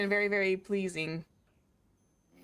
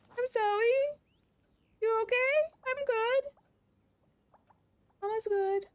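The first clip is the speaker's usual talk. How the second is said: much higher, cooing pet voice; slower than usual. Real, not acted. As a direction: soothe the frightened cat in a squeaky coo. Soothing startled cat, high voice.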